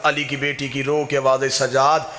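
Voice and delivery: grieving preacher's chant, voice full and carrying; mourning sermon. Acted. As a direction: tell the Karbala lament to a mourning crowd. Majlis lament narration.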